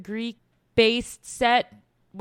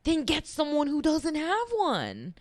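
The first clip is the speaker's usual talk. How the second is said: infuriated. Retold or imitated. Fan fuming over a miscast accent, infuriated. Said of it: "that's just so infuriating".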